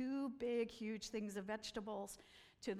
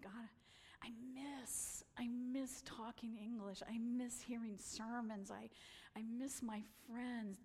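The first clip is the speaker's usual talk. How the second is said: lonely prayer; 5 dB quieter than usual. Retold or imitated. Lonely prayer on Sabbath morning.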